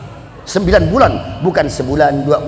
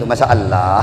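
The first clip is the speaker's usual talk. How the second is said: put-on Bugis accent; 7 semitones lower than usual. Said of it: "orang Bugis banyak juga itu".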